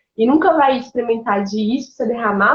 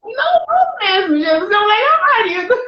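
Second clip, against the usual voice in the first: laughing, mock defiant; 8 semitones higher than usual. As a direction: declare it up high, half laughing and half crying out. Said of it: "E aí eu falei". (em tom de brincadeira, rindo e bem agudo)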